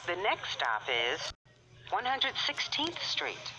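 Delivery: choppy automated subway announcement; pieced-together recorded phrases, uneven joins; spliced together words. Real, not acted.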